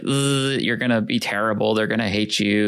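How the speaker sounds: lightly voiced buzzing mosquito; buzz, then nag like a worrying insect; anxiety mosquito. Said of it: "like, buzzing over your head".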